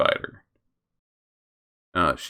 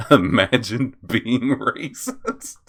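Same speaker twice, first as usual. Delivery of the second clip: mocking laugh; 5 semitones higher, 3 dB louder, slower than usual. Real, not acted.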